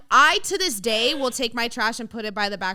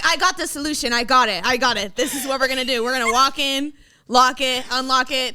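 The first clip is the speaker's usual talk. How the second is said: louder, confident mock know-it-all; mock husband; 2 semitones higher, 5 dB louder than usual. Friend imitating the husband's confident fix, hammed-up. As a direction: puff up like he has the answer. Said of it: "He's like".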